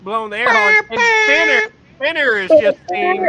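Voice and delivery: high, loud, worked-up telling; excited. Real, not acted. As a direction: get fired up telling it. Excited retelling of horn scene.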